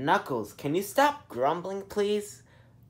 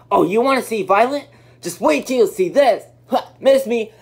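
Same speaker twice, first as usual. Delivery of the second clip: taunting; 4 semitones higher, 6 dB louder than usual. Acted. Threatening, taunting.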